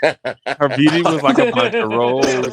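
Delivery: hammed-up Caribbean accent, half sung; fake Caribbean accent. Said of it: "my fake Caribbean accent".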